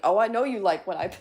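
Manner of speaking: teasing mock voice. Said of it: "Travis is over here like".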